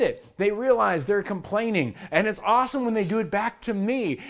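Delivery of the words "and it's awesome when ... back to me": ordinary delivery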